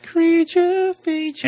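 drawn-out dramatic announcer; movie trailer voice. Pretend. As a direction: stretch it like a horror trailer. Dramatic echo of genre name.

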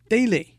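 daily, first syllable stressed; heavy-light stress. Shown as a demonstration. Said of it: "是重轻".

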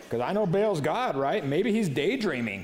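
light sarcastic jab; mocking taunt. Elijah mocking Baal's prophets, lightly sarcastic. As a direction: tease them lightly. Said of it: "Elijah began mocking them".

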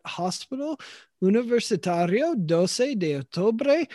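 Spanish name in an American accent; anglicized Spanish, doce said dohsay. Real, not acted. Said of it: "sorry for my terrible Spanish".

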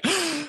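a sharp, soft intake of breath in awe; retold starstruck gasp. Interviewer retelling meeting Mean Gene, soft awed gasp. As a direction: gasp like a fan seeing a hero. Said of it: "it was like".

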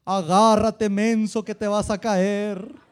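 loud mock divine warning, slow at the end; voice from heaven. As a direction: bellow it as God scolding from the sky. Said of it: "Una voz del cielo que me dijo".

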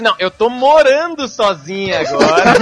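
slow, exaggerated mock correction; imitating Mayra. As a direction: drag out the fix teasingly. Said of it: "aí ela parou e disse". (imitando a Mayra corrigindo devagar)

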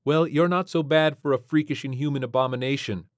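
wry space pilot; brisk pilot voice. Acted. Ariana voiced.

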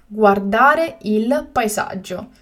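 slow and carefully spaced; slow, clear repetition. Shown as a demonstration. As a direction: say it again slowly for learners. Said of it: "teacher repeats the word twice".

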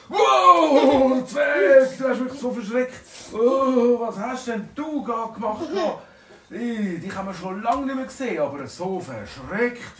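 high, loud and shocked; a dragon yelling in fright at the dwarf; startled dragon shout. Acted. (hoher, lauter Schreckensschrei)

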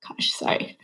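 choked-up whisper; whispering through tears; teary-eyed. Real, not acted. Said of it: "I'm getting teary-eyed".

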